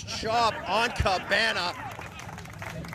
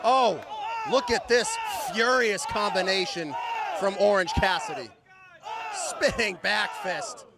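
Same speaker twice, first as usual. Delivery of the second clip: excited play-by-play. Acted. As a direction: call the combo with hype. Live call of combo.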